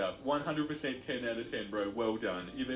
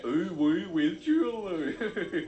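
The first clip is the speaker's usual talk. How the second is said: hammed-up creepy flirt; 6 semitones higher, 6 dB louder, much slower than usual. Neckbeard pickup line acted out.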